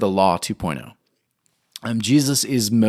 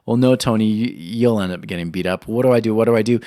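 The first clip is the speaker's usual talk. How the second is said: panicked inner voice; faster than usual. Retold or imitated. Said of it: "I thought to myself".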